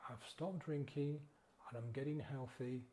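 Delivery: mildly gentle, patient self-talk, lightly voiced; gentle reply. Guide models a gentle reply to the craving, lightly calm. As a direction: calmly turn the craving down, no fight. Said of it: "just very gently say".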